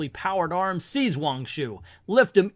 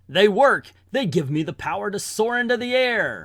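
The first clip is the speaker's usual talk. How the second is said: exultant cry, higher in pitch; excited exclamation; 4 semitones higher than usual. Acted. Iron Man finds his air jets work, excited. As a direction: cry out in triumph.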